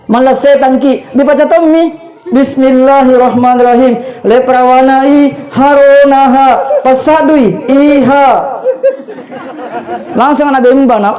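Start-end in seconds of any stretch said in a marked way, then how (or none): 2.3-8.3 mock recitation. Child mumbling recitation.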